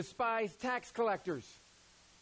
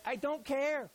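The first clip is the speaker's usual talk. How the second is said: blunt apostle; 4 semitones higher than usual. Retold or imitated. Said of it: "James is like".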